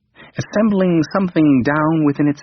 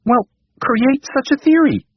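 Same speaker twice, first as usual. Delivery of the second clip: impatient king; 13 semitones higher than usual. A narrator's reading.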